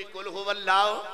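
drawn-out call-and-response recitation; slow, drawn-out congregational recitation. Shown as a demonstration. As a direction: give the verse slowly and fully. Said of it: "اچھی بولی".

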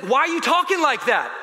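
high, indignant mock challenge; imitated scolding. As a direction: play the trainer demanding an answer. Trainer challenges his complaining.

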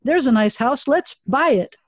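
lightly excited spotting, rising pitch on the exclamation; ooh, point it out eagerly; playful mock house-hunter; acted house-hunting delight. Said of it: "we're driving around and we say".

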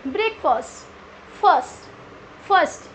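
ब्रेकफास्ट ending like फर्स्ट, "brek-fust"; short "fust" in ब्रेकफास्ट, then फर्स्ट alone; correct pronunciation. Shown as a demonstration. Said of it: "हम इसको फास्ट नहीं बोलेंगे". (ब्रेकफास्ट को "ब्रेकफर्स्ट" जैसा बोलें)

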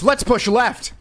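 hammed-up storybook exclamation; exclaimed. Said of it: "He exclaimed to his teammates".

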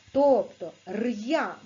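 р'я said slowly with a hard р, then я; teacher shows the sounds in a syllable; slow sound demo. Shown as a demonstration. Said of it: "як вони пишуться і як звучать".

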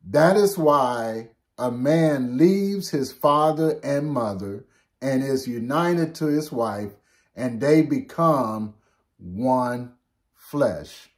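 slow, measured Bible reading; solemn slow reading of scripture. Acted. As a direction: read the verse slowly and solemnly. Reads scripture verse aloud.

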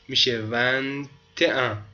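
ون ت ان said slowly, joined with a t; liaison demo. Shown as a demonstration. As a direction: spell out the liaison ون ت ان. (ون ت ان را آهسته با لیزون بگو)

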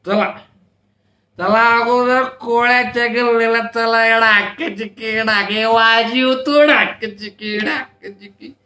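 put-on drunk leader urging the band on with drum chant; tipsy villager chanting to the drummers; rowdy rallying. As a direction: push the procession forward. Rau rallies drummers onward.

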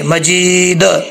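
मजीद slowly, final दाल without a vowel; slow मजीद, silent final vowel; stopping on दाल. Shown as a demonstration. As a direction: end मजीद on a clean d. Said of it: "तो यहाँ पर दाल जो है साकिन कर देंगे".

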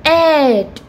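"at" said as a long "ate"; word ending demo. Shown as a demonstration. Teacher showing what A T E will produce, drawn-out demo. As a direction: stretch "at" into a held "ate" sound. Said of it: "It will produce sound".

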